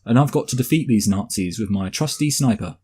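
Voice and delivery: hammed-up English accent for a Russian soldier. Jude Law as Stalingrad sniper, in a mock English accent. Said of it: "didn't speak with an English accent".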